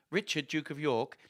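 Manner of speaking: ordinary delivery, nothing marked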